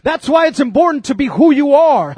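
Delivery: fervent sermon cadence; emphatic preaching. Real, not acted. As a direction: preach it in driving parallel phrases. Preaches at full force.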